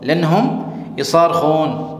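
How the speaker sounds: slow, careful repeat of the phrase; slow model phrase. Shown as a demonstration. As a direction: drill it slowly for the learner. (آہستہ دہرایا گیا جملہ)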